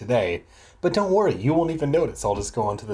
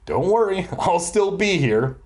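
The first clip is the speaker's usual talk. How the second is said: cheerfully; 5 semitones higher than usual. Acted. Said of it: "he said cheerfully".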